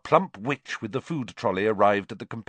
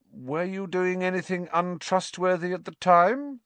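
shrewd; 10 semitones higher than usual. A narrator's reading. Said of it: "said Hermione shrewdly".

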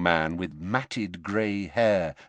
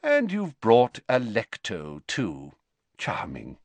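wry, dropping to a whisper; dry sarcasm. Acted. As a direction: murmur it drily.

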